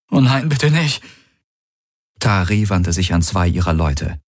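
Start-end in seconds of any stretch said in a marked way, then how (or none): 0.1-1.0 voice breaking. Acted. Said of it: "ließ seine Stimme brechen".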